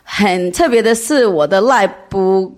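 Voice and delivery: non-native Mandarin, halting and careful; foreigner speaking mandarin. Real, not acted. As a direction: speak Mandarin as a learner, searching for words. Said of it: "我中文不太好".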